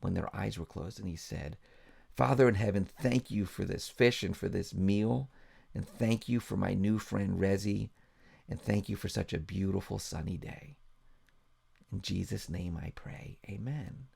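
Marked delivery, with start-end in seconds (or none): 2.1-14.1 soft, reverent mealtime grace; gently spoken grace; prayer. Acted. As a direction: pray quietly over the food. Mike says grace.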